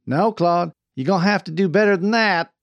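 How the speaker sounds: pressing, high encouragement; goading. A narrator's reading. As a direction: push him to yell harder. Coaching Claude to yell louder.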